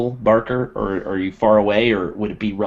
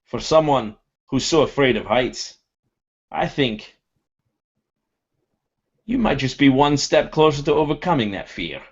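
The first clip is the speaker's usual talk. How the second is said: Durgan teasing; 5 semitones higher than usual. Acted. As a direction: rib a friend in a raised voice. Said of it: "would say".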